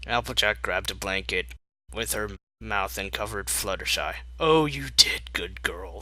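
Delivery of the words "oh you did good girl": breathy hushed comfort; whispering. Acted. Fluttershy whispering gently.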